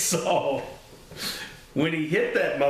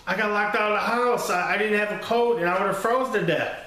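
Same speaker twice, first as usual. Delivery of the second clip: higher, fast, lightly voiced kid excuse; pleading kid; 6 semitones higher, faster than usual. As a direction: blurt the excuse like a scared boy. Kid defends himself to dad.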